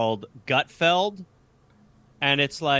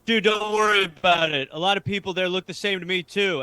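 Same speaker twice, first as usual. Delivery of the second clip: mock reassuring fan; 5 semitones higher, faster than usual. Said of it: "it'd be like".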